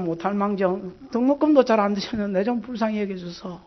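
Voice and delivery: desperate prayer. Retold or imitated. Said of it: "완전히 전쟁하듯이 기도를".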